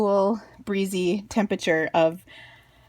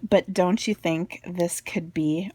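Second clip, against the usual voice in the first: Minnesotan accent; slower than usual. Real, not acted. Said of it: "did you hear my Minnesotan accent".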